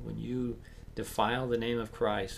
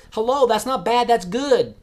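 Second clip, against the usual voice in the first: high, loud put-on voice; mock sneer; 11 semitones higher, 11 dB louder than usual. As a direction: ham it up like a mocking onlooker.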